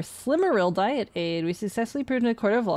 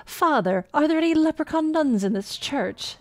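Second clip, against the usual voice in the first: leprechaun voice; 7 semitones higher than usual. Acted.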